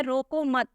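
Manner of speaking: रोको मत said together as one group, then stop; pause after मत. Shown as a demonstration. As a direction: join मत to रोको and halt right after it. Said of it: "फिर हम यहाँ पे रुक गए हैं". (रोको मत एक साथ बोलकर रुकना)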